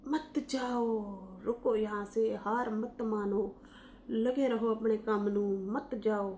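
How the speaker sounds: softly imitated begging fans, drawn out; lightly put-on plea, soft and slowing; mock pleading. Imitating followers who beg a vlogger to stay, mock pleading.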